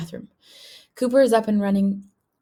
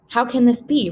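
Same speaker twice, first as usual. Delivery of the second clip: protesting; 3 semitones higher than usual. Acted. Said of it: "Roddy protests".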